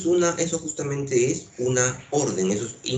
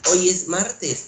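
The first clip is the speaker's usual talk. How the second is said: question tune; 7 semitones higher, 4 dB louder, slower than usual. Shown as a demonstration. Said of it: "Yo te pregunto".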